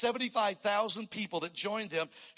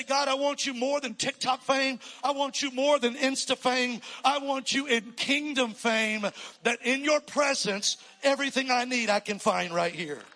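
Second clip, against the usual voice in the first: praying aloud; 5 semitones higher, 6 dB louder than usual. Acted. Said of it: "step over into the spiritual and say".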